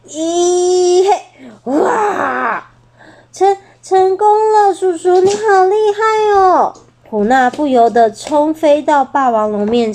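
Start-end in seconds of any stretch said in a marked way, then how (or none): 0.1-6.7 much higher, crying-laughing delight; overjoyed little bird cheering; tearful cheer. Acted. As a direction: burst out in happy tears. Bird cheers his success.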